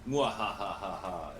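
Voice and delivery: slow evil mwahaha laugh; mad scientist. Pretend. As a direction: cackle like a cartoon villain. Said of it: "It was my master evil plan".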